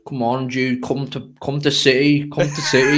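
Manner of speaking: mock Brummie, rough Birmingham accent; a clumsy Birmingham accent, ending in a laughing shout on "come to City"; bad Birmingham accent. Coaxing a Birmingham teammate in a bad Birmingham accent. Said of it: "That's the worst Birmingham accent".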